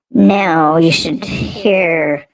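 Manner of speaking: sped-up chipmunk voice effect; chipmunk voice filter. Shown as a demonstration. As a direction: talk through the chipmunk voice changer. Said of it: "It sort of sounds like a chipmunk".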